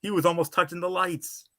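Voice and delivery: high-pitched, incredulous call; amazed commentary. Retold or imitated. Acting out his commentary on the drop, amazed high voice. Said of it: "I'd be like".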